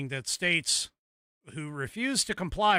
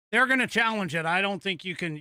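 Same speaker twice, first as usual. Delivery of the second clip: laughing; 6 semitones higher, 6 dB louder than usual. Real, not acted. Laughing, high and loud.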